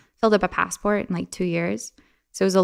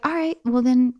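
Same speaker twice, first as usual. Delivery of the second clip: mom's voice; 2 semitones higher than usual. Retold or imitated. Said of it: "she was like".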